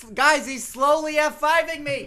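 high, loud mock alarm; excited panic. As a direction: play it like a wrestler just stormed in. Pretending Lesnar runs in.

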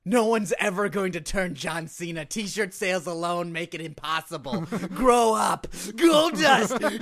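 loud, hammed-up wrestler promo; wrestling promo shout. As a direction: bellow it like a ring promo. In-character Goldust-style rant, shouting.

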